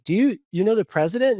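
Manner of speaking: astonished. Retold or imitated. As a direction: jump up high in pitch, stumbling.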